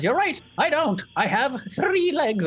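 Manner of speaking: put-on high, creaky little old woman; tiny old lady voice. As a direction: play a bossy tiny crone, way up high. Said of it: "She says".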